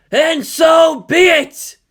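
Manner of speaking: slow, looming, swelling to a shout; an eerie being grieving and threatening; otherworldly girl voice. Acted. Ayanami attacks.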